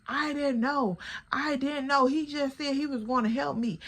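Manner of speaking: imitating a friend pleading innocence; whiny excuse. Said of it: "So Chocolate like".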